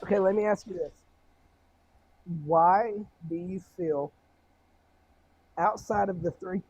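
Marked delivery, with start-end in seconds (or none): 2.5-6.6 muffled, far from the mic. Real, not acted. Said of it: "It sounds like a little muffled".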